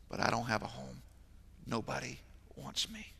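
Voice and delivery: quiet broken mock sob; imitating a sobbing boy. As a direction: let it fade to almost nothing. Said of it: "with how hard he's crying".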